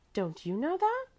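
put-on very high, rising child's question; great surprise. A narrator's reading. Little girl amazed at gentleman's ignorance, high surprise. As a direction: ask amazed, pitched high. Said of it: "Mäzli said in great surprise".

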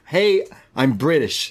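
slow, lightly put-on British accent; a hint of hammed-up British; mock British accent. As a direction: announce it slowly in mock British. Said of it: "he's getting across".

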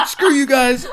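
high put-on voice, cheeky; mock retort. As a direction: toss it off in a silly voice.

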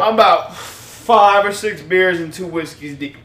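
tipsy. Real, not acted. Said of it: "So that's why this is happening".

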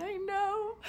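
high-pitched, whiny wail; mock crying. Driver in her head at the cop, mock crying. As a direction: imitate an exasperated tearful cry. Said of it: "I'm laughing, but I was crying".

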